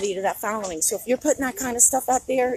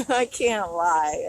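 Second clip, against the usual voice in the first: laughing; 5 semitones lower, much slower than usual. Real, not acted. First laugh in forever.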